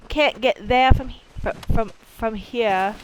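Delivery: Maine accent with dropped word endings; Mainer accent. Shown as a demonstration. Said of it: "they kinda drop your ending".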